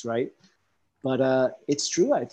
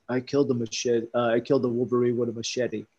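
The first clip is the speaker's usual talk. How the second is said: lightly voiced goofy husband, a bit fast; goofy guy voice; faster than usual. Husband boasting to his wife, lightly voiced goofy guy. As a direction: say it like a proud, simple guy. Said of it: "he's like, goofy guy".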